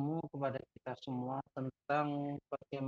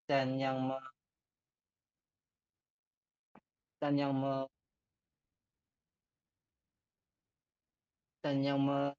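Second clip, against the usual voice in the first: glitching, cutting out mid-word; stuttering broken-up call audio; choppy connection; slower than usual. Real, not acted. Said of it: "Suaranya putus-putus".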